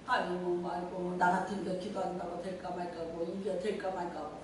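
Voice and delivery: soft, low mock muttering; imitating a doubter grumbling quietly; grumbling to oneself. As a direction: mutter doubtfully under your breath. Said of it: "혼자서 궁시렁궁시렁".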